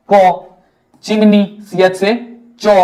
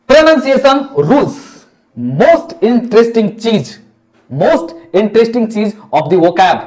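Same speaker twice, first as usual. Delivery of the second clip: slow emphasis; 3 semitones higher, slower than usual. Shown as a demonstration. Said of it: "teacher drawing out key phrase".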